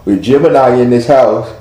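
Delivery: talking through a yawn; words stretched by a yawn. Real, not acted. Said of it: "excuse me, uh, for yawning".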